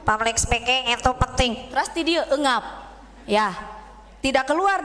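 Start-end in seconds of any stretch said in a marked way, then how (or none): 0.0-1.5 thin nasal voice, nose held; pinching nose. Shown as a demonstration. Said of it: "suara kita cempreng karena dari hidung".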